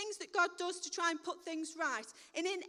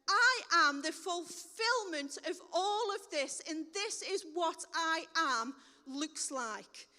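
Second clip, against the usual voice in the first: Jesus declaring; 4 dB louder, slower than usual. Acted.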